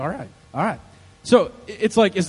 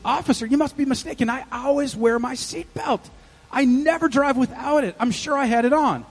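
higher-pitched, earnest mock denial; protesting innocence; 4 semitones higher than usual. Husband assuring officer he wore his seatbelt, protesting.

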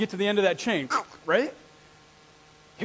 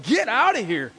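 loud, raised shooing call, retold; mock yell; 4 semitones higher, 5 dB louder than usual. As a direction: shoo a dog off in a retold yell. Retold yelling at the dog.

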